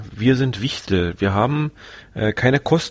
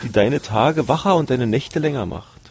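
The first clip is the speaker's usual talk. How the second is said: upbeat commercial read; 2 semitones higher than usual. Acted. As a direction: sell it like a TV ad. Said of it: "hört sich so ein bisschen an wie so eine Potenzmittelwerbung".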